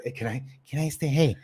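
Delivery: a quick, soft imitation of someone wheedling to stay over; mock mooching, words tumbling out; pleading freeloader. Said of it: "He's like".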